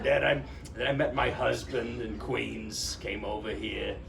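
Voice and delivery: put-on Queens accent. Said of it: "spoke with the thickest Queens or Brooklyn accent".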